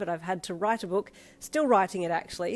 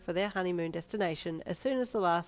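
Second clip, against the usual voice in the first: story narration. Acted.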